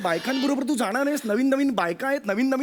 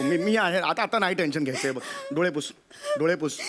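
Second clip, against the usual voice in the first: soothing; 8 semitones lower, 3 dB quieter than usual. Acted. Husband soothing crying wife.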